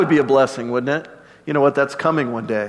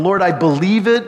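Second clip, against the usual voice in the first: higher, fervent declaration of trust; lifted, emphatic affirmation of faith; prayer of faith; 7 semitones higher than usual. Acted. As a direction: proclaim belief with growing conviction. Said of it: "a prayer of faith".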